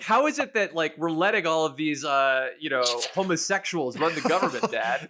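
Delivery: a son's outraged question, lightly hammed-up; imitating his son Henry. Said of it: "Henry comes in, he's like".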